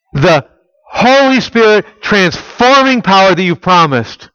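fervent prayer. Retold or imitated. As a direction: call out for the power with fervor. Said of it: "What was that, Jim? Yes, absolutely".

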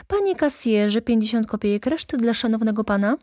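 high, quick call to the cashier; bustling salesman. A narrator's reading. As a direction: call out the order briskly. Clerk calls to the cashier.

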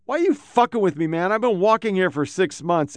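high, fast, aggrieved protest; complaining to the cop about being stopped again; irritated complaint. Retold or imitated. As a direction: rattle off the grievance, annoyed. Retold arguing with cop.

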